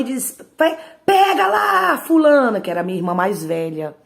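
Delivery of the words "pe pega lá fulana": much higher and louder, barking the command; angry mother's order. Retold or imitated. Enraged mother shouting at her child to fetch the switch.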